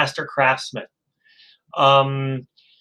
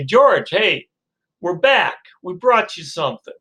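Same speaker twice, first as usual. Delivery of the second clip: cheery seller; 4 semitones higher than usual. Acted. Sellers return to George.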